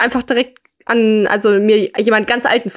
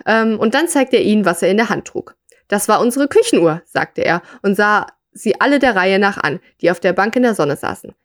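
measured read-aloud storytelling voice; story narration. A narrator's reading. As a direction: read the short story out to listeners.

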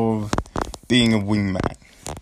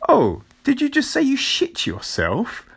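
high-pitched mock outburst; imitated loud blurt; 13 semitones higher than usual. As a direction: blurt it out for everyone to hear, imitating a friend. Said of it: "he just says it all out loud".

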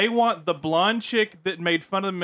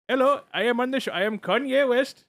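put-on higher-pitched caricatured Indian accent; mock Indian accent; 4 semitones higher than usual. Pitching a fake-rapper bit for the show, mock Indian accent. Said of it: "Indian man to pretend to be a rapper".

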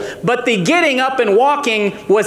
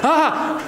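startled gasp; 6 semitones higher than usual. Retold or imitated. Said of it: "I'm always startled".

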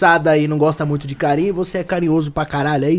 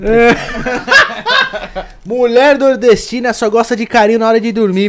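laughing; 5 semitones higher, 6 dB louder than usual. Real, not acted. Laughing while joking about wife.

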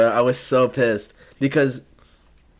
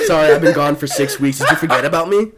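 laughing mock reply; 3 semitones higher, 5 dB louder, faster than usual. Mocking mom's reply, laughing.

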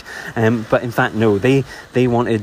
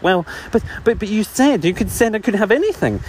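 flustered bee protest; 9 semitones higher than usual. Acted. Melissa protests to angry Zeus.

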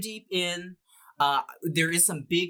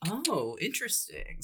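whispered; 5 semitones higher, 6 dB quieter than usual. Acted. Whispered reply to aside.

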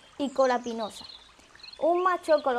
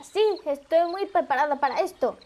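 louder, mildly excited reply; a touch of excitement, louder; 2 semitones higher, 5 dB louder than usual. Acted. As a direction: answer with eager readiness. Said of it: "Cascada respondió emocionada".

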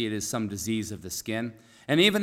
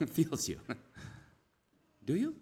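chuckling; 6 semitones higher, 5 dB quieter than usual. Real, not acted. Preacher tickled by asking whether Jesus feels you, chuckling. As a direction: laugh breaking into the words.

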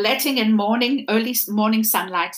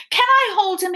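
put-on higher, hopeful little boy voice; eager boy; 11 semitones higher, 4 dB louder than usual. Bryce asking the mender to hold Edward, hopeful. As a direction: ask like a child wanting a hug.

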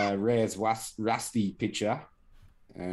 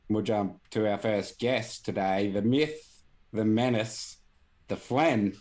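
hype announcer intro; 3 semitones higher, 3 dB louder than usual. Acted. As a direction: announce him like a champion. Introducing guest hype style.

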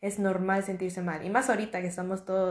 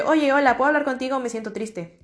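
sad request for help; 3 semitones higher than usual. Shown as a demonstration. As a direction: demo of asking a friend for help, fading into sadness. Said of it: "llegar con alguien y decirle".

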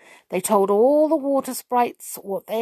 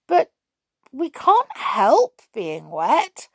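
higher, slow, plaintive protest; mildly sorrowful; 6 semitones higher, 4 dB louder, slower than usual. A narrator's reading. Trickle defends the sprites for being wet, mildly sorrowful. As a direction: plead with a touch of sorrow. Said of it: "said Trickle sorrowfully".

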